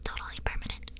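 whispering through hiccups; hiccupy whisper. Real, not acted. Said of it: "Please excuse my hiccups".

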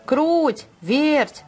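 rooster calling the mice, high and loud. A narrator's reading. Rooster calls the two mice, loud call. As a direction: call them over. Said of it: "позвал петушок".

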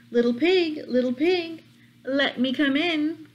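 high, coaxing wolf voice. Acted. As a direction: sweet-talk the pig like a sly wolf. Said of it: "the same wolf came along and said".

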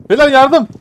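high urgent shouts; panicked calls for help. Real, not acted. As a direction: yell for help under attack.

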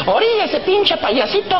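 high, drawn-out order yelled from afar; mock police holler; policeman's shout. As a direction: call out a rough roadside command. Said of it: "oigo que me gritan".

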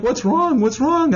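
high anxious mother voice; imitating worried mother. Mother pressing her crying son, high and anxious. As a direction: ask it like a fretting mom. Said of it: "And she's like".

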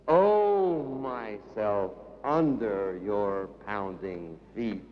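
low intoned lines after a swelling "Oh"; solemn incantation; poetic invocation. Acted. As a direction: invoke with a strong cry, then chant low. Poem invocation.

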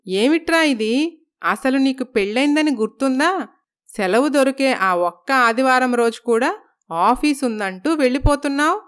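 put-on a touch of an exasperated elderly mother; scolding mother. Narrator voices scolding mother-in-law. (కొడుకును మందలించే తల్లి గొంతు, కొంచెం ఎత్తుగా)

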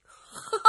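short scornful ha-ha; brief, cold mocking laugh. A narrator's reading. Luo Cheng answering the challenger below, cold laugh. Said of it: "罗成一阵冷笑".

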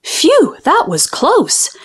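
high airy "Phew", then slowing; gasped relief. A narrator's reading. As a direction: let it out as a relieved gasp. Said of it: "gasped Squash".

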